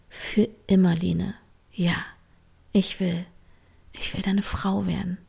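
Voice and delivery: quiet, sure yes; soft, firm answer to a proposal; soft but firm. Acted. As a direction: promise softly and steadily. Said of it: "sie sagte leise, fest".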